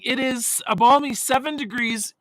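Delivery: lively, voiced announcement with some volume. Real, not acted. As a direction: announce it into the mic at full voice. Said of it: "Don't yell into the microphone".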